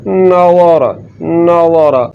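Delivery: नज़ारा with a thick, dark za; full, heavy za. Shown as a demonstration. Teacher showing how to thicken the letter, heavy za. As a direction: raise the tongue root on the ज़ा of नज़ारा. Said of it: "ज़बान की जड़ को तालु की तरफ बुलंद".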